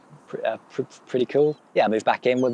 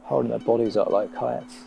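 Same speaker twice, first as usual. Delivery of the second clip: slow poetic recital; spoken-word piece; slower than usual. Acted. Comic describing a child's crayon drawing, slow poetic delivery. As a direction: linger on each image, leaving long pauses.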